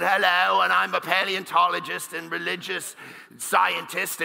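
a hint of a posh British scientist's accent; British accent impression. A televised debate guest introducing himself in a light British accent. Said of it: "he's got his British accent".

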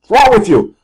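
high, drawn-out anguished yelp; over-acted strangled exasperation; mock cursing outburst. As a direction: wail in hammed-up fury at the broken trend. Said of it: "that skip will be the".

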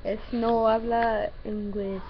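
loud, slow mock Mexican accent. Shown as a demonstration. Reluctant friend tries on request, slow Mexican accent. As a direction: attempt a Mexican accent, drawn out. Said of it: "do a Mexican accent".

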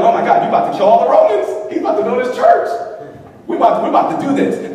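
excited disciples. Pretend. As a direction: play the thrilled disciples rushing ahead.

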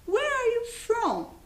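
"Where are you from?" said slow and high, each word clear; slow teacher model of "Where are you from?"; English model phrase. Shown as a demonstration. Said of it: "Vamos tentar repetir comigo?".

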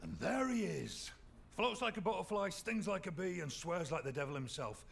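teasing high-spirited intro; jovial announcing. Acted. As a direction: announce him like a boxer. Mate greets him jokingly.

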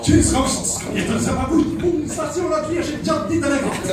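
hams up his father's voice, pitched high; imitating dad. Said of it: "Så han sier, da sier han".

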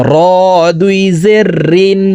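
long heavy "র" off the tongue tip. Shown as a demonstration. Teacher demonstrates Ra, sounded from the back of the tongue tip. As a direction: roll the R of "রিন" with the tongue tip. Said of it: "জিব্বার আগার পিঠ থেকে".

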